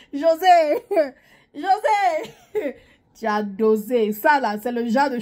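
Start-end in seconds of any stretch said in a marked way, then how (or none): 0.1-2.7 laughing. Real, not acted. Laughing while calling out name.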